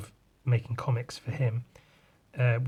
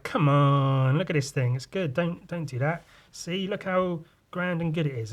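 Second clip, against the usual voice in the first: lightly acted coaxing, rising higher; mock pleading; 4 semitones higher than usual. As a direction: plead gently as if talking someone round. Acts Spider-Man pleading with Galactus.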